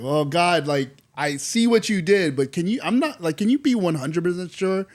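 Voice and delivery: lightly acted haggling with God, pitch lifted; hesitant pleading. Voices Gideon cautiously asking God again.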